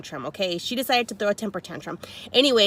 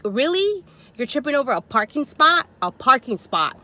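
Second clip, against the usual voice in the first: louder, higher disbelief; rising voice; 4 semitones higher, 4 dB louder than usual. Retold or imitated. Tells the rival off, voice going up. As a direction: voice climbing in annoyance. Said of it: "my voice level started kinda going up".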